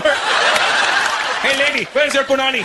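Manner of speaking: high-pitched Indian dad demanding at the shop; imitated Indian dad. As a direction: play the dad calling out in a high voice. Acts his dad at the store.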